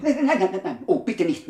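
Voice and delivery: panicked refusal. Acted. Henchman refuses to hold the black cat, panicked. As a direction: back away in panic from the cat.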